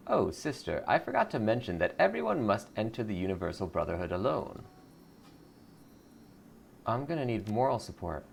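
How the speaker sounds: sugary cult greeter; lightly voiced sweet cult recruiter. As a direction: welcome her in like a smiling recruiter. Recruiter insists on solitude.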